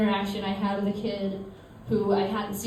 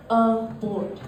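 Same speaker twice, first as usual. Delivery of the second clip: put-on "board" in a Southie-Long Island accent. Kid asking how to spell it, Southie-Long Island accent. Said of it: "Southie slash Long Island thing".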